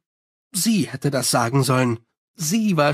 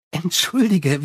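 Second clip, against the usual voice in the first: Sally, breezy; 2 semitones higher than usual. Acted. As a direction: toss off Entschuldige like a charming vampire. Sally's apology, vampire voice.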